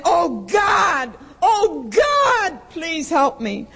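high, far-off pleading cries; desperate cry to God. Retold or imitated. Woman alone in the basement crying out to God. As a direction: beg God for help, breaking. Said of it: "I started screaming".

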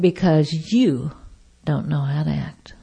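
deliberate, near-whispered put-down; hushed rebuke. Retold or imitated. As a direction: imitate a waiter quietly scolding. Waiter quietly rebuking her.

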